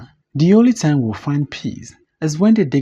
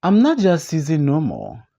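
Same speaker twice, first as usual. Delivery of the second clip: clumsy dignity. Acted. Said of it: "Clumsy dignity".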